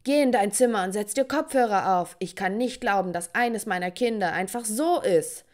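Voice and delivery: dad yelling. Retold or imitated. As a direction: snap at her to go to her room. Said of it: "schrie mein Vater mich an".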